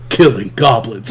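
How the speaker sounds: monotone stoic slayer. Retold or imitated. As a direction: drop into a stoic matter-of-fact answer. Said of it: "monotoned and stoic".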